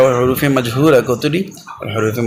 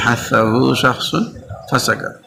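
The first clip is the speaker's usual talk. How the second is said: slow recitation; slower than usual. Shown as a demonstration. Teacher to class, repeating the mnemonic in a slow chant. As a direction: chant হাসাহু শাখসুন ফাসাকাত slowly, repeating it twice. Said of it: "এগুলো হচ্ছে হামসার হরফ".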